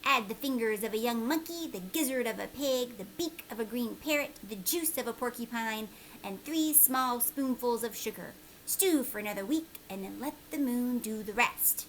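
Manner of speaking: lightly voiced old man listing strange ingredients; a hint of a secretive old wizard; old man reciting a recipe. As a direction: read it like a mysterious old man's spell. Reads old man's recipe aloud.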